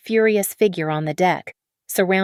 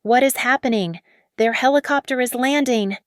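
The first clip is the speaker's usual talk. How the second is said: higher, whiny panic; high-pitched whine; 6 semitones higher than usual. Acted. Kira whining at Marcus as the helicopter lands, higher and whiny. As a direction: whine it at Marcus like a spoiled model. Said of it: "her voice a high-pitched whine".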